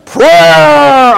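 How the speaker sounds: loud, high, drawn-out Irish "Prayer"; imitated Irish accent. Preacher relishing how the Irish say it, mock Irish accent. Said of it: "then the way you say".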